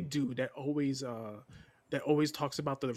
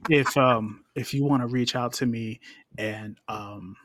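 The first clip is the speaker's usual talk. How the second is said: smooth, measured creepy-seductive voice. Pretend. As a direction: lightly put on a creepy, seductive voice. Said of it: "I'm using this creepy voice".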